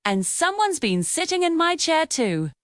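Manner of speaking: a hint of a gentle mama bear; gentle medium voice. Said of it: "In her gentle, medium-sized voice".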